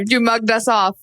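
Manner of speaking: Love Island slang. Retold or imitated. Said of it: "Very well done".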